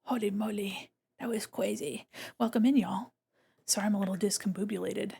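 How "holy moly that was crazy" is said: breathless whisper. Real, not acted. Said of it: "I gotta catch my breath".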